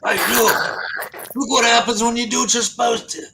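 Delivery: high mocking voice.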